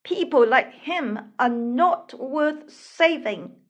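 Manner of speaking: insistent, slightly scornful urging. Acted. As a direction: press her to give up on him. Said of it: "urged the mermaids".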